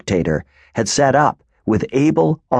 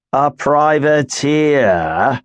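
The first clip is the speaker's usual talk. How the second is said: growled; 4 semitones higher, much slower than usual. Acted. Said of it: "growled Grimes".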